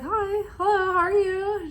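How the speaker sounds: high, overly cheerful hello; a high, keen "how are you"; bright eager greeting. Retold or imitated. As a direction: chirp it like you're thrilled he called. Eager greeting quoted to her dad.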